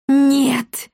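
high, loud desperate shout of no; desperate cry. A narrator's reading. Gamet tries to stop the boy, desperate shout. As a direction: cry out to stop a fatal mistake. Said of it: "с отчаянием выкрикнул Гамет".

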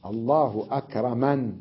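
no ee after the n of أكرمن; stop on n. Shown as a demonstration. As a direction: close أكرمن on a vowelless n. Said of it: "ووقف على النون بالسكون". (وقف على النون بالسكون)

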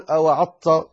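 أوعظت with the dha turned to ta; wrong, dha swallowed. Shown as a demonstration. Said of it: "خطأ".

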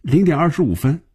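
high, amused, opening on a laugh. A narrator's reading. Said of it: "笑着说".

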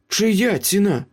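high-pitched, pressing question; pointed question. A narrator's reading. Meryl questions Ace about the price, pointed. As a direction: demand an answer, pitched well up. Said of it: "запитала Меріл".

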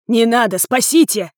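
husband yelling as he's beaten. Acted. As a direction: cry out begging. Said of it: "заорал мой муж".

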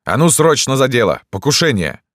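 urgent yell. A narrator's reading. Dantes orders doctor to work after attack, yelling urgently. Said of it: "завопил от двери Дантес".

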